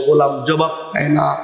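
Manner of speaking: ordinary talk, nothing marked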